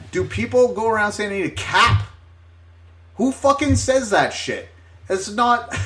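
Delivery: high-pitched exasperated disbelief; indignant rant. Real, not acted. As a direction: rant as if it makes no sense at all. Indignant rant about being misheard.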